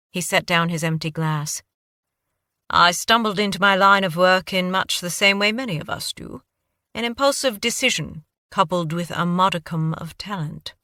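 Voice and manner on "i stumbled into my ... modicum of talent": put-on light British accent, modest; a hint of British accent, self-deprecating. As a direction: explain his career in a cultured British accent. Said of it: "Your accent".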